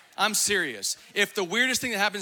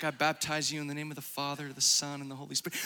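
lower, quick, gruff mock baptizer voice; imitating J-Lu baptizing; 7 semitones lower, 7 dB quieter, faster than usual. Preacher imitating J-Lu dunking people, low quick mock baptism. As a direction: rattle it off like a forceful baptizer. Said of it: "then he's like".

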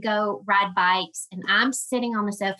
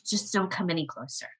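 hushed warning; 3 semitones lower, 6 dB quieter than usual. Retold or imitated. Retold warning at accident scene.

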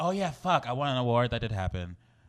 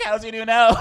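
mock blunt question; 12 semitones higher, 12 dB louder than usual. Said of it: "I was like".

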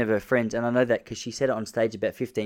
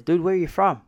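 American dude; 7 semitones higher, 3 dB louder than usual. Retold or imitated. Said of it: "he goes".

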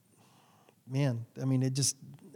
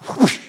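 mock whoosh sound; 6 semitones higher, 7 dB louder than usual. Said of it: "and she goes".

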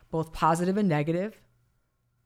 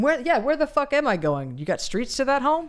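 higher, louder, incredulous riffing; incredulous mock questions; 7 semitones higher, 3 dB louder than usual. Riffing back at her co-host, incredulous and raised. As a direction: scoff at the idea, pitch up and punchy. Mocking the taking-my-ball-home idea.

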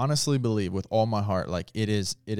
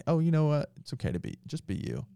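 breathy near-whisper, mocking a lenient preacher; hushed mocking reassurance; mock soft permissive; 6 semitones higher, 5 dB quieter, faster than usual. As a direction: say it soft and limp, as the thing Jesus never said. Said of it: "he didn't come and say".

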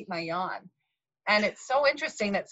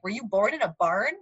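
exasperated husband; 5 semitones higher than usual. Retold or imitated. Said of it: "husband would say the same thing".

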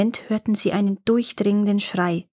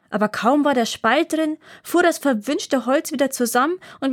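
lightly voiced dwarf, higher, complaining; dwarf complains to the girls about his stuck beard, in a higher petulant voice; grumpy dwarf; 4 semitones higher than usual. Dwarf voice held.

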